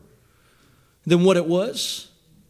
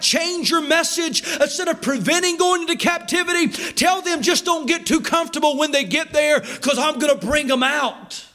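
preaching command; 6 semitones higher than usual. Acted. Preacher voicing God's command.

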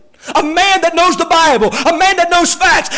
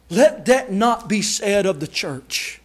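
solemn quiet; 7 semitones lower, 7 dB quieter, slower than usual. Real, not acted. Solemn sermon close.

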